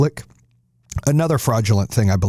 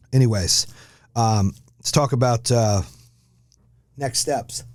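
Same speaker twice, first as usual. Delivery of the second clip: chewing while talking; 2 semitones higher than usual. Real, not acted. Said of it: "Sorry, I'm chewing in the mouth".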